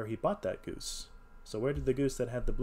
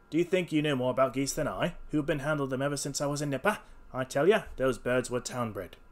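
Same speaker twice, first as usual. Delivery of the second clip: slightly raised, indignant stallholder; indignant salesman; 3 semitones higher, 4 dB louder than usual. Acted. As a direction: insist on your expertise, slowing at the end. Salesman argues back.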